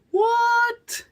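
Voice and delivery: very high squeaky what; mock shock. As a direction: act startled. Mock outburst.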